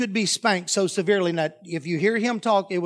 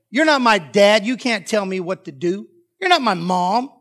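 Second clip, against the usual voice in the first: loud, defiant outburst from a stepchild; acted-out child talking back; 6 dB louder than usual. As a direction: throw it out hard like a kid refusing orders. Child defying a stepparent.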